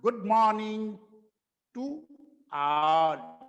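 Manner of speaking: Good morning to all with the long aa in all; corrected model phrase. Shown as a demonstration. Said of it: "क्या बना". (सही उच्चारण में)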